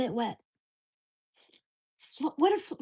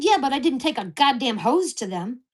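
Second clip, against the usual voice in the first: retold angry retort; 5 dB louder than usual. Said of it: "I said".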